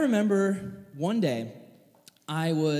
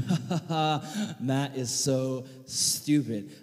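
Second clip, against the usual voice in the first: mock kid snicker; 5 semitones lower, slower than usual. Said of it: "We're like".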